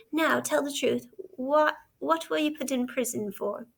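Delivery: stern. Acted. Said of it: "looked down upon him very sternly".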